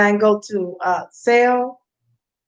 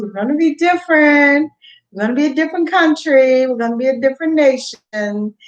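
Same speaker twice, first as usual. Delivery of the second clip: excited; 4 semitones higher, 3 dB louder than usual. Real, not acted. Rallying proclamation.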